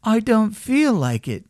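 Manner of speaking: reluctant little rabbit, pitched high; toy rabbit. A narrator's reading. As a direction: beg off in a small high rabbit voice. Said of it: "said the rabbit".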